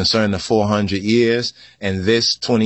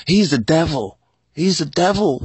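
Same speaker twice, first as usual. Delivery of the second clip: accuser's voice; 4 semitones higher than usual. Retold or imitated. Voicing accusers.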